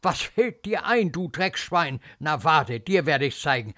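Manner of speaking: threatening nurse's scolding; angry, menacing reprimand; disgusted anger. Acted. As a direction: scold the child with contempt. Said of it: "Ekel, Zorn".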